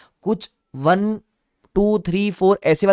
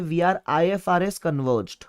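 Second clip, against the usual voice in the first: fond nickname; 5 dB quieter, much slower than usual. Shown as a demonstration. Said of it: "हम प्यार से बोलते हैं".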